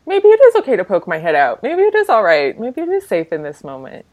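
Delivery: timid hopeful inner voice; a cautious voice peeking out. Pretend. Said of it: "the voice starts to, you know, go".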